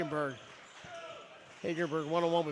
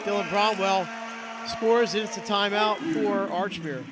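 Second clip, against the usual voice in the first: excited call; 3 semitones higher, 6 dB louder than usual. Real, not acted. Calling a basket live.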